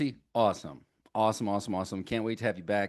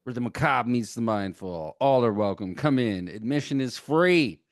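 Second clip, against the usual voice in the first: a touch of ringmaster; loud showman welcome; 6 dB louder than usual. Acted. Announcer pitch continues.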